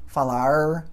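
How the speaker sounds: "falar" ending in an English-like curled R; countryside-style Brazilian "falar" with curled final R; variant final R. Shown as a demonstration. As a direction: hold a retroflex R at the end of "falar". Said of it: "vários sons".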